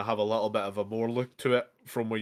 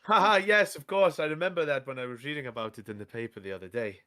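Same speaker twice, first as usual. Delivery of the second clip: bluffing cheerfully; 3 semitones higher, faster than usual. Acted.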